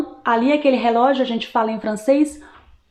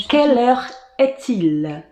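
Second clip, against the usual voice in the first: slow question, split into two parts; slow French model; 2 semitones higher, slower than usual. Shown as a demonstration. Teacher showing how to ask the time, slow model. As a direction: spell out the phrase by ear, unhurried. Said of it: "A gente fala".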